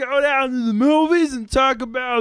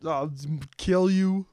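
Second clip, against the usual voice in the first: low, soft menacing hero voice; Kermit the Frog voice; 6 semitones lower, 6 dB quieter than usual. Acted. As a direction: threaten low and quiet. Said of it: "I'm the same as Kermit the Frog voice".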